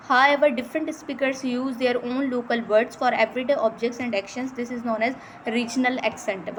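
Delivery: slow, careful reading of English definitions; reading from slide. Shown as a demonstration. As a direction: read each word out slowly, like dictation. Reads slide text aloud. (धीरे-धीरे slide से पढ़ना)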